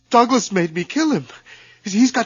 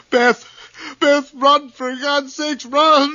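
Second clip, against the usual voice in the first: desperate cry to run; frantic call across the room; urgent warning shout; 4 semitones higher, slower than usual. Acted. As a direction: yell at her to get out. Bob warns Beth to flee.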